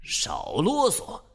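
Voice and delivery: a slow, high-pitched mock shout; a hammed-up official cutting him off, loudly; loud snap. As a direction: bark it at him, dragged out and high. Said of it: "伯嚭大声地告诉他".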